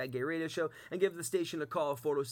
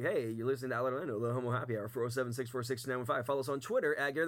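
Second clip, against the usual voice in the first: radio announcer; 2 semitones lower, faster than usual. Retold or imitated. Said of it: "And then I'll be like".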